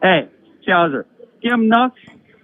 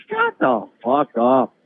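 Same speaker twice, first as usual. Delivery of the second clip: lightly imitated fighter's voice, pitched down; slow the first words, a mild mock challenge; half-done impression of a brash fighter; Conor McGregor voice. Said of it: "In my Conor McGregor voice".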